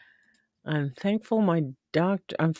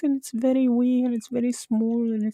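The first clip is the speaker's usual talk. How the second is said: a hint of a Scottish lilt, raised and small; light Scottish impression; 5 semitones higher than usual. Describing the Scottish YouTuber to her guest, lightly in a Scottish accent. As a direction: lightly voice Margot's Scottish way of talking. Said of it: "and she talks like this".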